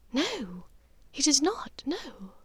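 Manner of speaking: gentle hushed no from a mother; Narcissa, soft refusal. Acted. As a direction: let the refusal fade almost to a whisper. Narcissa voiced by narrator.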